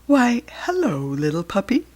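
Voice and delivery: sly serpent greeting, smooth and coaxing; a snake sizing up its dinner. Acted. Snake greeting the lost puppy, smooth and sly. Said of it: "whispered the smooth, slithery snake".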